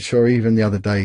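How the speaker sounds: imitated Irish bishop, lightly done; soft Irish accent. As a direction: put on a light Irish lilt. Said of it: "in this soft Irish accent".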